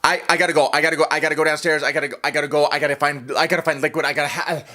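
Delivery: breathless, repetitive panicked babble; mock desperation. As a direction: stammer out a frantic escape, short of breath. Frantic escape for liquid, acted.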